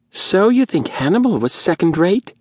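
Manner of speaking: high, rasping whine of an indignant man. A narrator's reading. Faldon rising to defend humans, high rasping whine. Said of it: "in his high, rasping whine".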